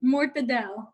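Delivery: mortadella cut down, last vowel dropped; shortened mortadella. Shown as a demonstration. Guest shows how you say it here, mortadella cut short. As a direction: say mortadella condensed, without the final a. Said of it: "That's how you say it here".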